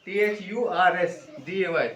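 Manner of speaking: slow, letter by letter spelling. Shown as a demonstration. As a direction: spell each letter clearly and slowly. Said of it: "आर उसमें miss कर देते हैं". (धीरे-धीरे एक-एक अक्षर बोलकर)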